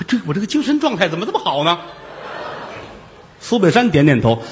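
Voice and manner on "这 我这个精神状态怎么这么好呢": lively. Acted. 老道精神焕发自问.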